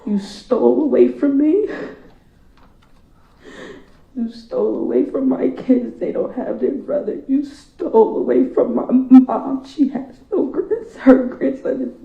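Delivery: hurling the charge at the killer; angry accusation. Real, not acted. Addresses killer in court.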